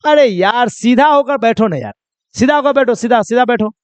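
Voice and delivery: lightly acted scolding, insistent; mock-scold someone slumped at a desk; mild scolding. Telling someone dozing on a desk to sit straight, mildly scolding. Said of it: "डांटते हुए कहिएगा".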